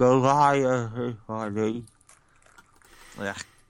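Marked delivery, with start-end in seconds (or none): 0.0-1.9 put-on mouth-full-of-gauze voice, higher pitched. Describing waking from surgery, imitating talking with a mouth full of gauze. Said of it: "So it would have sounded something like".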